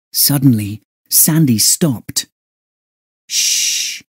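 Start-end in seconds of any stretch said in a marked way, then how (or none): 3.3-4.0 hushed warning whisper. Acted. Boy warning his friend to be silent, whispered. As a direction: breathe it out, no voice. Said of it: "he whispered".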